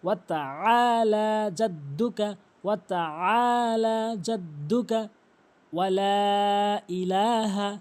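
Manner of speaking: slow Arabic recitation with drawn-out vowels; measured recitation. Shown as a demonstration. Teacher reciting for learners to copy, slow recitation. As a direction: recite phrase by phrase, stretching the long syllables.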